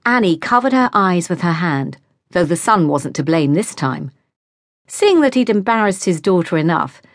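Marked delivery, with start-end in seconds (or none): none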